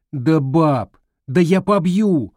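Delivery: put-on insistent boy.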